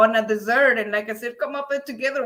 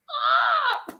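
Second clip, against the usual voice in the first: dinosaur roar. Pretend. Dinosaur noise imitation.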